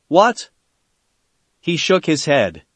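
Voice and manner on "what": shocked what. Acted. Sakura to Sasuke, shocked by his accusation, high startled outburst. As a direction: caught off guard, blurt it out.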